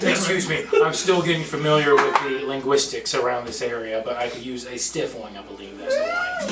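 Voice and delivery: prim gentleman. Acted. Prim city character asks for drink.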